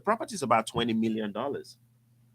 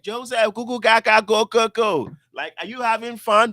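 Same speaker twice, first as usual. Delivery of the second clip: high teasing babble; playful baby talk; 9 semitones higher, 9 dB louder than usual. Retold or imitated. JT teasing Joseph on the course, baby-talk babble. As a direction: goof around like talking to a baby. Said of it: "he's playing with me like".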